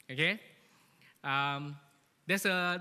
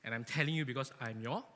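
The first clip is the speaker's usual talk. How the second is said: lower, softer, firm boss voice; stern boss; 7 semitones lower, 5 dB quieter than usual. Retold or imitated. Boss on the phone to a scared employee, low stern. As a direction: lay down the law, low and cold. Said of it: "Then your boss say".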